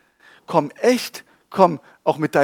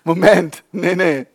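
empörter Protest; 9 dB louder, slower than usual. Retold or imitated. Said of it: "Ich so".

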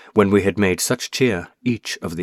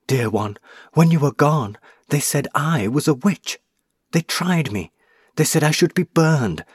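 lightly raised, gentle woman's voice for the lady; lady's voice; 3 semitones higher than usual. Acted. Ghost lady recounts her witch trial.

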